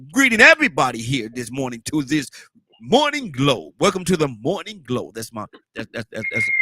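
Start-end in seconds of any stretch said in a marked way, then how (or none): 0.1-5.1 eighties radio host greeting the morning crowd. Shown as a demonstration. Host greeting listeners on the Morning Glow, in his eighties radio voice. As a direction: announce it like an old-school deejay. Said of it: "that's my radio voice".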